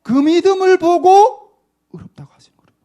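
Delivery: intense stage whisper; breathy preacher's whisper; 1 whispered emphasis. Real, not acted. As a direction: whisper it like a secret truth. Preacher repeats point as whisper.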